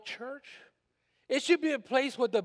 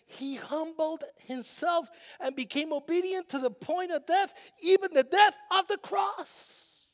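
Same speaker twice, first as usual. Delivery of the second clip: higher, rising preacher's cry; preaching climax; 5 semitones higher than usual. Acted. Pastor rising to a preaching climax about the cross. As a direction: lift the voice to the cross.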